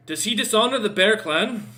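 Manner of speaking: stern orc challenge. Acted. Orc voiced challenging question.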